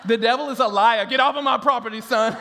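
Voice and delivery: hammed-up rebuke of a trick-or-treater; mock indignant homeowner. Homeowner sending away kid dressed as devil, mock indignation. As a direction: order them off with mock righteous outrage. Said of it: "And you're like".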